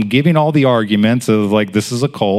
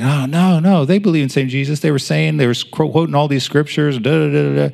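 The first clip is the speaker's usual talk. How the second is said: higher, brushing-off imitation; insistent protest; 6 semitones higher than usual. Hostess defending her Mormon friends, insistent.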